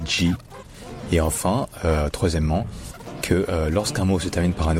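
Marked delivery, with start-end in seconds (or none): 0.1-0.3 "G" said as djee; DE brésilien. Shown as a demonstration. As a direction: show Brazilian de as a "G" sound. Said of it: "ça se dit". (« G » prononcé dji, à la brésilienne)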